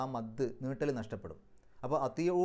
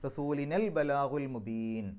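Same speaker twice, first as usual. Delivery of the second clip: recitation; much slower than usual. Shown as a demonstration. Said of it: "റസൂലിന എന്ന് നീട്ടൂല".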